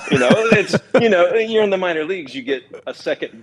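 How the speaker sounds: laughing. Real, not acted. Laughing at debut memory.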